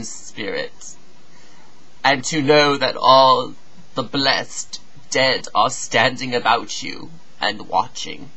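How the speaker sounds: measured poetic reading, phrase by phrase; solemn verse with deliberate pauses; solemn recitation. Acted. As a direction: recite it gravely, falling away at line ends.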